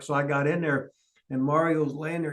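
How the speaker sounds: ordinary talk, nothing marked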